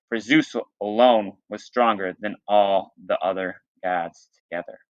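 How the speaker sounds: reading a myth aloud to the class; teacher reading a storybook to students; story reading. Acted.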